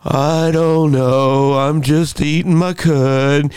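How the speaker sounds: slow, dopey lightly voiced cow. Cow answers giraffe, slow and dull. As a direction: drawl it out like a bored cow chewing. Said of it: "And the cow going".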